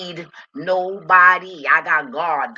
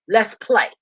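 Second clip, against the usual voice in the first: higher, louder call to play; eager call; 6 semitones higher, 7 dB louder than usual. Real, not acted. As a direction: sing it out like an invitation. Repeats the invitation, louder and higher.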